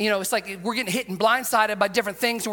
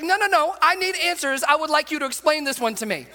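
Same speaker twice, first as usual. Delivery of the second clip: insistent Thomas; 5 semitones higher than usual. Acted. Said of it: "He's like".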